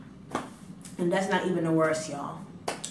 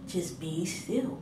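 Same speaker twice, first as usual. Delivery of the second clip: just be still much softer and slow; soothing inner voice; 7 dB quieter, slower than usual. Retold or imitated. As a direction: hush the words just be still, calming and slow. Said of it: "the Spirit just telling me".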